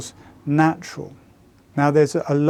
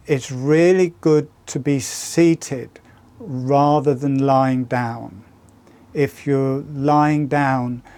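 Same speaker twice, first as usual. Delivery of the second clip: slow, drawn-out words after breathing; slower than usual. Real, not acted. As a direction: let the voice slow right down, meditative. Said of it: "you might notice my voice has got a lot slower".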